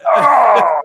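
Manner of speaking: high, shouted "oh"; loud exclamation. Pretend. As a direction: cry out loudly, pitch jumping up. Player exclaims after mouse threat.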